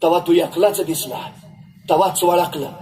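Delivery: a mother who already knew her son was dead; old mother. Acted. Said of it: "आई म्हणाली". (खालच्या स्वरात बोलणारी दुःखी आई)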